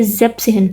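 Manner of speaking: "زیب سہن" as zeep plus tsehn; shortened seven in seventeen. Shown as a demonstration. Teacher showing how seventeen is said, "زیب سہن" without seven's ending. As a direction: say "زیب سہن" with seven cut to one syllable. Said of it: "سیون تھا نا".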